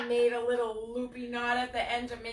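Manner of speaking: laughing. Real, not acted. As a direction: chuckle through the words. Laughing while telling joke.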